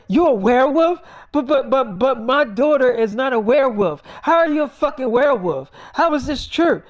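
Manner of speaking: a mother shrieking at the sight of her werewolf daughter; panicked mock-mom outcry; shocked mom.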